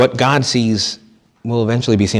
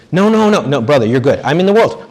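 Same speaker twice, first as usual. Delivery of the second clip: hammed-up monk brushing off praise; protesting monk; 2 semitones higher than usual. Monk protesting to the priest that he is in the world.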